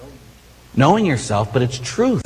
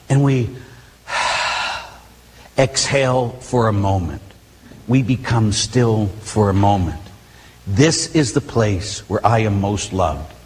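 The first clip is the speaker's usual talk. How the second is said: calm exhale; 4 semitones lower than usual. Shown as a demonstration. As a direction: let the breath go and settle. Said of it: "leads stillness in prayer".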